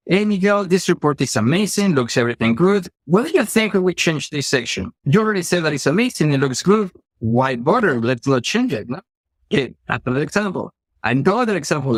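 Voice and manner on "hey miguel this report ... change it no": lightly voiced upbeat manager, higher pitched; a hint of an overly cheerful boss; former manager. Former manager cheerfully waving off changes to a report, lightly mimicked. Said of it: "an interaction with my former manager".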